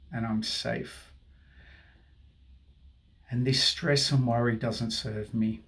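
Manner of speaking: soothing tapping guide; guided affirmation. Acted. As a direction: speak each phrase as a calming mantra.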